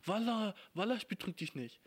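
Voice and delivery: mock street-slang teenager; mock slang teen. Imitating a German teen using Arabic slang, mocking. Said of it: "Sachen sagt wie".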